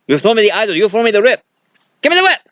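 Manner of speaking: hammed-up adventurer climbing to a squeaky yelp; Indy demanding the whip. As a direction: plead for the whip, getting frantic. Acting Indy and Sopito at the pit.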